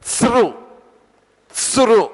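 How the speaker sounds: స్రు with a clear rolled ర and ఉ; syllable demo. Shown as a demonstration. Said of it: "రుకారం కూడా పలకాలి". (స్రు అక్షరాన్ని స్పష్టంగా పలకడం)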